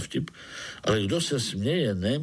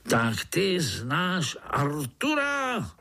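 slow, higher gruff ant voice; a mock roar of suspicion; roaring overseer; 6 semitones higher, much slower than usual. Ant overseer questioning the spider, slow mock roar. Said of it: "zařval".

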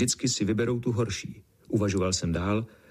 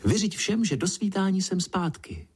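higher call tossed back while leaving; road calling out; 9 semitones higher than usual. A narrator's reading. Second road calling to the narrator as she runs off. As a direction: call it over your shoulder. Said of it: "zavolala na mě".

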